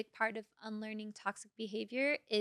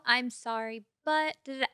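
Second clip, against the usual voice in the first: dismissive apology; 4 dB louder than usual. Shown as a demonstration. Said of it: "And it's no".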